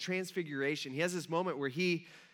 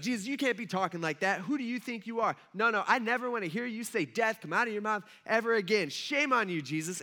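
indignant acted telling-off, slightly raised; mock scolding; 3 semitones higher than usual. Peter pulling Jesus aside to rebuke him, mock scolding. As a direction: scold like an offended friend, hammed-up.

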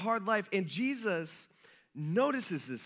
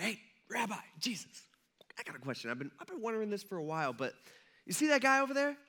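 hushed question; 3 semitones higher, 3 dB quieter, faster than usual. Retold or imitated. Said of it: "we kinda whisper".

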